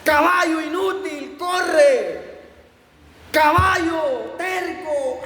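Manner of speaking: hammed-up furious yell at the racing donkey; angry shouting. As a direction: bark orders furiously at a lazy animal. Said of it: "muy enojado, le gritaba".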